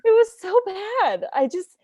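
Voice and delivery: high-pitched, laughing through it. Real, not acted. Agreeing with co-host the movie was bad, laughing. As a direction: giggle out the verdict.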